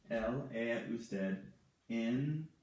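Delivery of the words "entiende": "entiende" in separate syllables with long pauses; very broken-up "entiende", each syllable held apart. Shown as a demonstration. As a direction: sound out "entiende" piece by piece, as if writing it. Sounding out word while writing it.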